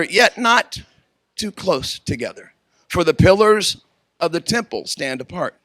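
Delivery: measured, solemn recital; poem reading. Acted. Reads Gibran poem at wedding.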